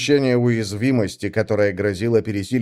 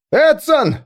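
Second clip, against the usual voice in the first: much higher, louder calling out; louder anxious call; 6 dB louder than usual. Acted. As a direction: call him again, now frightened. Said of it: "позвал кто-то". (громкий испуганный крик)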